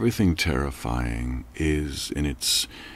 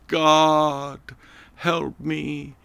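desperate cry; 9 semitones higher, much slower than usual. Acted. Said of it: "Clifford cried out to the heavens".

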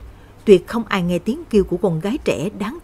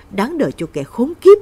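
louder, higher spat-out anger; bitter curse; 5 semitones higher, 7 dB louder than usual. Acted. Grieving mother cursing the man who drove Lan to death, bitter anger. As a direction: spit the words out in disgust.

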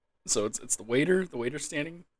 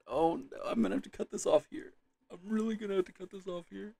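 high voice, on the edge of laughter; helpless, high-pitched near-laughing; cracking up; 9 semitones higher than usual. Real, not acted. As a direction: squeeze the words out while losing it. Losing it with suppressed laughter.

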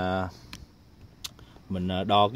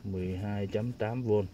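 slow dictation; 6 dB quieter, slower than usual. Real, not acted. Reads out figure while writing it down.

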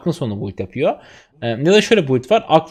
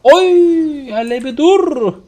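high, loud cry, then slow; excited yell; 11 semitones higher, 5 dB louder, much slower than usual. Real, not acted. Gamer yelling at his big play, high and loud, then slowing down. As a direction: yell with delight as the play lands.

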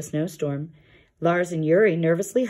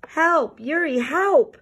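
much higher, louder call; frightened bear calling for help; cry for help; 11 semitones higher, 3 dB louder, much slower than usual. Acted. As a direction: call out in alarm into the clouds. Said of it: "cried Lars".

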